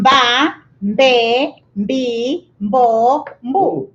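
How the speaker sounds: "Ba, mbe, mbi, mbo, mbu" one at a time, each vowel held; M fused to the b in "mbe, mbi, mbo, mbu"; syllable drill. Shown as a demonstration. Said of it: "as we learned before".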